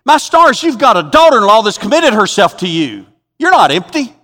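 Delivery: high, loud protest; exasperated disbelief. Acted. Preacher setting Naomi straight about her daughter-in-law, exasperated. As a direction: scold in astonishment.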